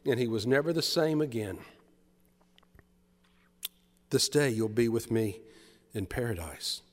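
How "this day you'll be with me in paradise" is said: gentle promise. Acted. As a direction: repeat the promise tenderly. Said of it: "A gentle smile crosses his face".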